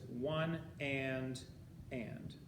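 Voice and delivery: slow count, holding the first "and"; syncopated count. Shown as a demonstration. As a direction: say "one", stretch "and" through the silent beat. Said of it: "what you're saying is".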